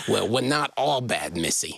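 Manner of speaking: hard-boiled, tough-guy gangster voice. Retelling a story, voicing the gangster's line to a girl, gangster voice. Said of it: "you have to say it like the gangster".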